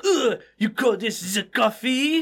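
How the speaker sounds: put-on slow, disgusted French accent; mock French accent. Frenchman disgusted by American coffee, mock French accent. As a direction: do a fussy Frenchman, drawn out. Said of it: "make me hate the French".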